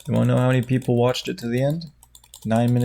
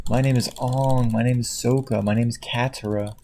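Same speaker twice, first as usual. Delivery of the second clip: mock movie intro. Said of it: "an accent like that is cool".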